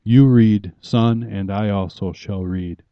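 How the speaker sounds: inviting father. Shown as a demonstration. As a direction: gently invite the son to read with you. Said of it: "You come with a book for your son".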